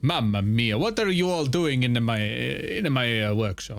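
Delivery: put-on Italian accent in a dwarf character voice. Voicing a female dwarf character: put-on italian accent. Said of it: "Got to remember the Italian accent".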